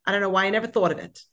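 mother phones the relative in the taxi: high, loud, hurried excitement; excited phone call. Retold or imitated. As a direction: call her back like you just found the match. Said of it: "She said".

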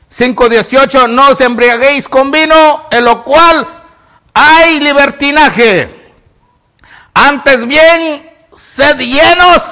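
emphatic, measured Bible reading; declaimed scripture reading. Real, not acted. Preacher reading Ephesians to the congregation, declaimed. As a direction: proclaim the verse to the church.

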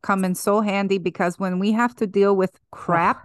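comic put-on Russian accent; acento ruso fingido. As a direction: slip into a playful Russian alter-ego accent. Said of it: "we say it in this accent".

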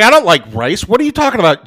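put-on baffled kid, pitch jumping on the question; retold disbelief. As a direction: imitate a stunned kid's protest. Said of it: "Bub's head almost fucking exploded".

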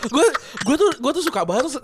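laughing. Real, not acted. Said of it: "gue geli banget".

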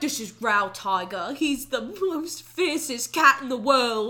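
lightly put-on character voice, slowing down; mock henchman introduction. Imitating the introduction of Growl Tiger, mock fierce voice. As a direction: introduce the fierce cat with mock menace, drawn out.

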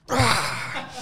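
high mock yelp of pain; a short pretend shriek; mock cry. Woman's weight being "liberated.

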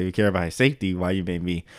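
low, soft questioning; mock rebuttal. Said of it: "He's like".

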